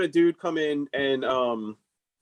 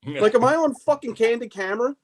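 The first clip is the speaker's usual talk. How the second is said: retold exasperated outburst; 8 semitones higher than usual. Retold telling off persistent client.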